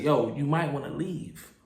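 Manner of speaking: low, soft, discreet advice; respectful warning. Retold or imitated. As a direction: quietly suggest they go. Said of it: "I told you respectfully".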